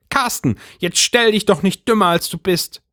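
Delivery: high, reproachful wife; scolding wife. A narrator's reading. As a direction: chide him in front of everyone. Brigitte scolds husband.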